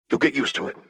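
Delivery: put-on high, smiling boy's reassurance; young boy voice. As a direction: grin through the words. Echo repeats Jinx.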